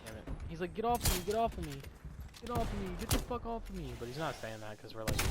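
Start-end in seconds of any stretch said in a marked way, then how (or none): 0.7-3.9 high, repeated frantic demand; imitated freak-out. Bitten kid to the boy biting him, high freaked-out yelling. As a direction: act out a panicked struggle to get free. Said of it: "like, freaking out".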